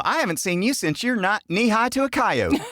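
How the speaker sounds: high, put-on country greeting; folksy Southern saying. Host showing off a childhood saying, high folksy Southern accent. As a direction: greet them in a hammed-up Southern voice. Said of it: "His sayings. Growing up".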